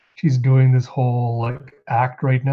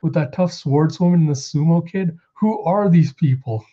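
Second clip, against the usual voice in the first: panicked high voice; 5 semitones higher than usual. Retold or imitated. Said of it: "It's like".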